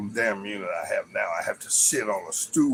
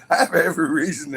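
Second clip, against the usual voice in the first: laughing whisper; 5 semitones higher, 5 dB louder, faster than usual. Real, not acted. Laughing whisper after protest.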